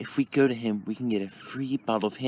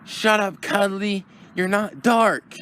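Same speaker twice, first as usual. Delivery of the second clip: much higher, loud and slowed-down snapping; shrill scolding; 10 semitones higher, 4 dB louder, slower than usual. Acted. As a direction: put Cuddly down hard and slowly. Scolding a friend mid-chase.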